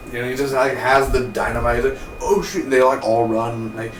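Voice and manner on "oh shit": high-pitched mock alarm; mock panic. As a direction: act out a startled bystander, pitched up. Bystanders seeing dynamite, about to run.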